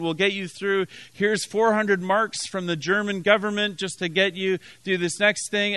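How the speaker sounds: put-on light, kindly German accent. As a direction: imitate a nice German official, lightly accented. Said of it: "this nice German accent".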